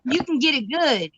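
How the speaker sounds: gentle playful teasing. Real, not acted. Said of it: "you sound like you're teasing me now".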